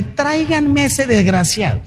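mildly voiced furious command; angry king. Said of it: "Más o menos lo dice así".

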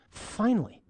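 a first delighted cry, lightly voiced; mild joyful exclamation. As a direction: found at last, slowly savoured. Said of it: "man speaks, and he's like".

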